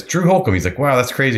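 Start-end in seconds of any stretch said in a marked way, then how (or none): 0.0-0.5 name jumps much higher and louder; the penny drops on the name; surprised recognition. Retold or imitated. 0.8-1.4 amazed. Retold or imitated. Pilot amazed.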